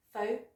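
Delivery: PHOTOGRAPH broken into PHO, TUH, GRAF with pauses; syllable by syllable. Shown as a demonstration. Teacher breaks the word down, syllable by syllable. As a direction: split "photograph" into three separate syllables. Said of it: "it's got an uh sound".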